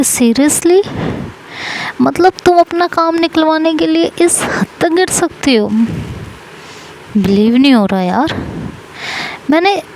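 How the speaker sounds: shocked disbelief. Acted. Yuvika confronts begging Saima.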